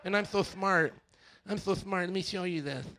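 fast, sing-song mock of a smug skeptic; smug know-it-all. Pastor mocking nonbelievers who think they know everything, sing-song. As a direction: sneer it like you know everything. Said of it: "That's how they sound".

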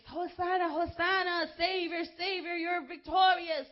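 high, loud joyful praise cry; shout of praise. Acted. Preacher voicing the congregation's praise, joyful loud shout. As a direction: lift it up in jubilant praise. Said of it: "that shout of praise".

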